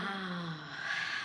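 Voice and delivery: long soft sigh of release; relieved sigh. Shown as a demonstration. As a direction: let it all out. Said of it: "I can relax".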